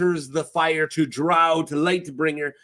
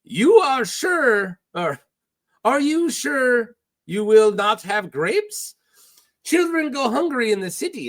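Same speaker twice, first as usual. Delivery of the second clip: Salladhor Saan; 5 semitones higher than usual. Acted. Pirate offers Davos grapes, accented and theatrical. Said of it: "Now I got an accent".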